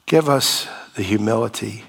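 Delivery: calm, earnest spoken prayer. Real, not acted. Pastor prays over the congregation, calm and earnest. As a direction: pray humbly for the wounded.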